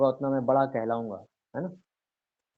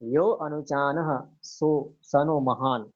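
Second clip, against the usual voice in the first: verse recitation; slower than usual. Acted. Teacher quoting a Sanskrit verse.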